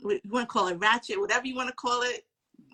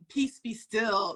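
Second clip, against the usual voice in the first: slow calm command; much slower than usual. Retold or imitated. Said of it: "his energy was".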